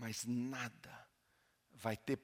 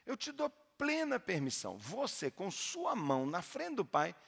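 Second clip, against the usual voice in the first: pastor's challenge; 6 semitones higher than usual. Retold or imitated. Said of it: "Eu falei assim".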